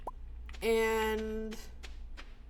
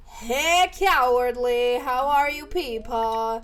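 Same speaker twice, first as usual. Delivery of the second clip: loud, drawn-out Minnesotan greeting; Minnesotan accent; 6 dB louder, slower than usual. Real, not acted. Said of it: "I'm part Minnesotan and cannot escape that accent".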